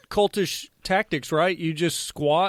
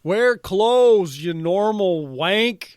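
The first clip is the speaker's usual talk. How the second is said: loud mocking scold, drawn out; mock scolding yell; 4 semitones higher, 5 dB louder, much slower than usual. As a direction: bark it like a fed-up Mountie.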